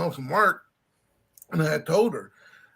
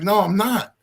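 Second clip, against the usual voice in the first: retold indignant denial; 6 semitones higher, 7 dB louder than usual. Retold denial of being country.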